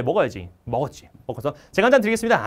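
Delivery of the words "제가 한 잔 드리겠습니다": loud, high dutiful offer; military-style offer. Acted. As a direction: offer a drink as a drilled junior would. Junior offering senior a drink. (군기 든 큰 목소리로 권하기)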